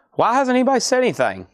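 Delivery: exasperated. Real, not acted. Wrong date, nobody told him.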